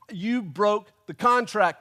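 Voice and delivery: slow, emphatic mock outrage; angry accusation. Customer accusing the pizza shop, hammed-up anger. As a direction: punch each word in comic indignation. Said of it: "angry old man rant".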